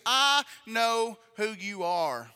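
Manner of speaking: slow, drawn-out words in retelling; slow recognition. Retold or imitated. Preacher voices king recognising David, slow and deliberate. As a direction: let each word land separately.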